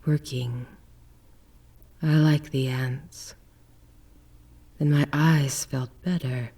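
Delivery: lightly voiced lost man recalling in a daze; faraway murmur of a lightly voiced confused man; dazed suspect.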